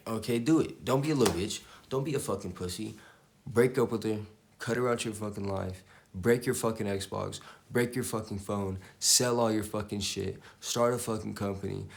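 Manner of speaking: loud tough-love pep talk; loud motivational rant. Real, not acted. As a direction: bark orders like a hype coach.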